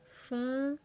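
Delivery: "Fontaine" split as fon, tai, ne; syllable by syllable. Shown as a demonstration. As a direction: count out the three syllables of "Fontaine" aloud. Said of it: "combien de syllabes avons-nous".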